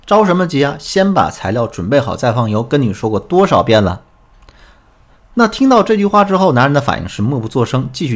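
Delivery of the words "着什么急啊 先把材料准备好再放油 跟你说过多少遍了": retold scolding. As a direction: replay the wife's nagging briskly. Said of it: "这时候小琴怎么说的？". (模仿妻子不耐烦地责怪)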